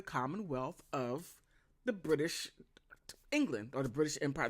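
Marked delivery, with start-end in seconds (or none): 1.8-4.5 hushed conspiratorial whisper; whispered aside. Real, not acted. Whispering an aside to viewers.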